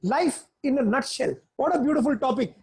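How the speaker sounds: mildly eager, upbeat opening; a lightly enthusiastic teacher starting class; geared up. Shown as a demonstration. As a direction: sound keen to begin the topic. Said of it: "I come geared up and say".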